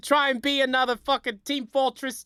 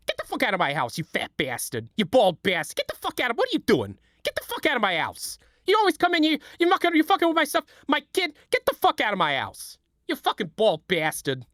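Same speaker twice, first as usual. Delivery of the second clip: angry Larry David rant. Pretend. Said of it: "I'm gonna do an impression".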